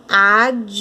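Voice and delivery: advogado chopped into ad, vo, ga, do with pauses; syllable by syllable. Shown as a demonstration. Teacher showing where D and V fall, advogado broken into ad, vo, ga, do. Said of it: "O D fica na primeira sílaba".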